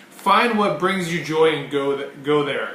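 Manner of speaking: ordinary delivery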